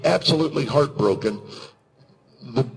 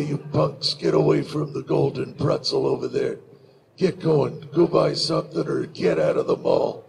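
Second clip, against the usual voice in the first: lightly voiced tough-guy growler, understated; a hint of laconic western menace; Clint Eastwood. Shown as a demonstration. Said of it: "this whole Clint Eastwood thing".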